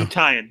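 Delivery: "New Tian" with Tian said TIE-en; alternative pronunciation. Shown as a demonstration. Repeating the option to co-host, Tian as TIE-en. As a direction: say "Tian" like lion after "New". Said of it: "is it Tian or Tian?".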